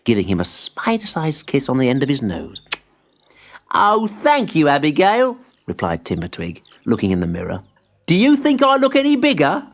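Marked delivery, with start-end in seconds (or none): 3.8-5.4 put-on high, eager child-like voice; young tree voice. A narrator's reading. Timbertwig thanks his spider friend, high and eager. 8.1-9.7 put-on high, eager child-like voice; young tree voice. A narrator's reading. Timbertwig thanks his spider friend, high and eager.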